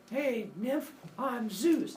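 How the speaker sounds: high cocky Zeus greeting. Acted. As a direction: play Zeus breezy and high. Zeus greets nymph, voiced.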